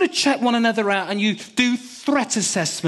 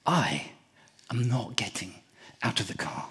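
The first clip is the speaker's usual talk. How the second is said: defiant refusal; 8 semitones lower, 8 dB quieter than usual. Retold or imitated.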